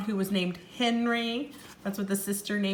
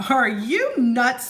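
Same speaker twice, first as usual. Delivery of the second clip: 1 incredulous; 3 semitones higher, 6 dB louder, slower than usual. Acted. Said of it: "said Jack".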